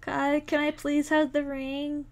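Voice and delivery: soft, slow coaxing ask; coaxing softly. Acted. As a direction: gently sweet-talk the cat. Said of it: "repeated much softer, slower".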